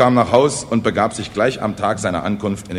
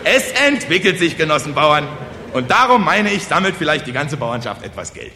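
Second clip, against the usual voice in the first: high, loud, triumphant appeal; eager village orator; 6 semitones higher, 4 dB louder than usual. Acted. Kosonossow asks peasants for money, eager oratory. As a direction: pounce on the opening and proclaim.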